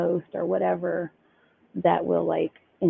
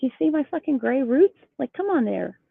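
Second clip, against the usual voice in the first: exasperated, high-pitched appeal; indignant storytelling, voice lifted; retold irritation; 7 semitones higher, 3 dB louder than usual. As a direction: re-enact arguing your case in disbelief. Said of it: "I was so irritated".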